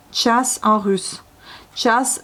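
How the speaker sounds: час said slowly, a crisp tch then a long a; slow Russian word. Shown as a demonstration. Teacher slowly modelling the Russian for heure. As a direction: stretch час out, chas. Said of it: "donc час".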